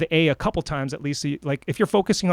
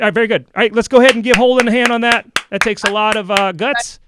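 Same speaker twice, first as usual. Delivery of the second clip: excited cheer; 6 semitones higher, 9 dB louder than usual. Real, not acted. Host cheering for the performer.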